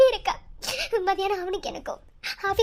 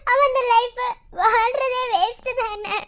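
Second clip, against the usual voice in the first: crying; slower than usual. Acted. Wife sobbing over marriage.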